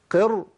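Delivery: "قر" sounded out, held on the ر; unvowelled ra. Shown as a demonstration. Teacher isolates a syllable for students, "قر" ending on a vowelless ر. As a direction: isolate the syllable "قر", stressing its closing ر. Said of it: "الراء ساكنة".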